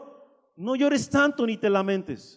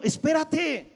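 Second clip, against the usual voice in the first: sudden call; 5 semitones higher, slower than usual. Real, not acted. Preacher cuts off worried thoughts.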